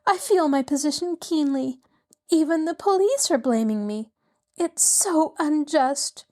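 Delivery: an upset elegant widow begging the lawyer for help; distressed society lady. A narrator's reading. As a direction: pour out her woes, voice lifted high. Mrs. Willoughby pleads higher.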